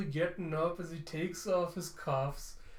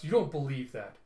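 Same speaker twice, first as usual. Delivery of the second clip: angry snap. Acted. Quan accusing Telsa of fooling herself, angry. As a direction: snap the accusation, then ease off. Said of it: "Quan gets angry as he snaps".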